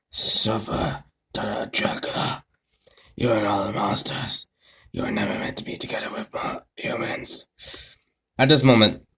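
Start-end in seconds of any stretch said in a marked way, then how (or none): 0.1-7.4 low, hushed, whispered satanic demonic voice. Narrating a man speaking over a lifeless corpse, in a low, slow demonic voice. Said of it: "he said slowly in a low, almost demon, almost satanic, demonic voice".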